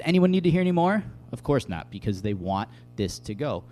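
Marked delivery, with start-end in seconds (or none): 0.0-1.0 fast, high, loud scornful challenge; enraged demand. Retold or imitated. High priest to the council, furious challenge. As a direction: fling it at the council, higher and louder. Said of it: "the high priest gets enraged".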